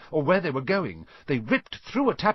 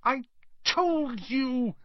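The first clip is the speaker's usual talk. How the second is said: breathless; much slower than usual. A narrator's reading. Hermione repeats, breathless.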